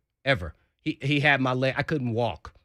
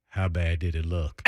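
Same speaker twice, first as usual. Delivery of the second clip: laughing quote; 8 semitones lower, 3 dB quieter than usual. Retold or imitated. Concussed player asks, laughing.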